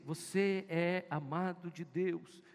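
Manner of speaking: slow loving affirmation to oneself; slow, tender affirmation. Shown as a demonstration. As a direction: tell yourself gently and slowly that you are loved. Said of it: "De dizer a você".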